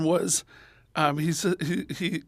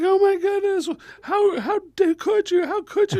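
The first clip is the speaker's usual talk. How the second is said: very high mock-shocked mom; scandalized falsetto, stammering; horrified mother; 3 dB louder than usual. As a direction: sputter in high-pitched imitated outrage. Mother's horrified reaction, acted.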